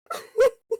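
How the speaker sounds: high giggling squeal; high squealing laugh. Real, not acted. Players break up laughing.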